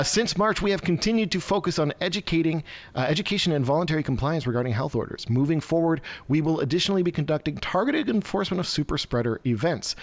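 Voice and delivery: lifted pitch, reading an official statement; news read. Real, not acted. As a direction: read the quoted statement out formally. Reads an official statement aloud.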